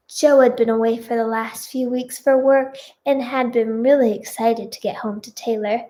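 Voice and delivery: put-on children's TV storyteller narration; story narration. A narrator's reading. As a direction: read it out like a storyteller. Reads fan fiction aloud.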